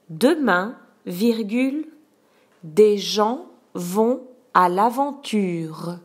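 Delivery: slow, clear dictation voice; dictating. Shown as a demonstration. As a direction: dictate the sentence slowly, word by word. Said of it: "je te dicte la phrase un".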